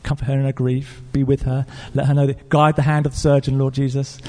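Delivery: short, measured petitions, mildly soothing; gentle prayer. Retold or imitated. Pastor prays for the crying caller, gentle prayer. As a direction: imitate a pastor praying gently. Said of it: "he starts off with his gentle prayers".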